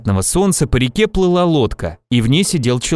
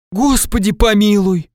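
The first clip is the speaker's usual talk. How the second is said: higher-pitched startled exclamation, mildly acted; frightened; 7 semitones higher than usual. A narrator's reading. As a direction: exclaim in mild alarm. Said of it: "испугалась бабушка". (испуганно, высоким голосом)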